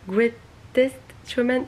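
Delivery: slow, careful attempt at an English accent on "Greatest Showman"; a self-mocking English accent. Real, not acted. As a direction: put on an English accent for the title. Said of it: "mon accent anglais".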